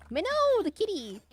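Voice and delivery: thrilled, pitch leaping up; excited calling out. Real, not acted. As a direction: squeal at seeing a kitty. Excited at spotting a kitty.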